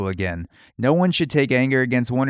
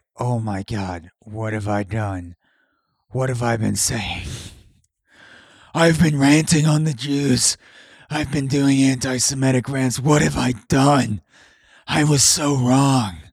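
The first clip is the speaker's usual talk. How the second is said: ailing ancient wizard voice, weak and near death. Imagining a rapper's reaction during the movie, done as the rapper as Gandalf with lung cancer. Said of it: "made the rapper sound like a Gandalf with lung cancer".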